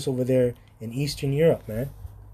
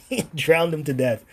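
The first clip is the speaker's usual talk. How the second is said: higher and louder through the laugh; louder laughing take; 5 semitones higher, 3 dB louder than usual. Real, not acted. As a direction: burst out with it, laughing. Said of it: "I'm not laughing in a very sinister way".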